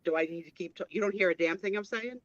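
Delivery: muffled underwater audio; bad headset mic sound. Real, not acted. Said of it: "you sound like you're underwater".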